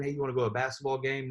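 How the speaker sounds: flat, quick, throwaway invite to a game; bland invite. Shown as a demonstration. Team leader demos the wrong way to invite, offhand. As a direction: ask like it barely matters. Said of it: "you can't invite someone to a basketball and say".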